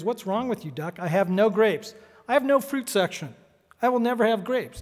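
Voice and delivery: mildly exasperated, pitch climbing; exasperated manager. Acted. Manager losing patience with a pestering duck, exasperated. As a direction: build irritation as a fed-up storekeeper.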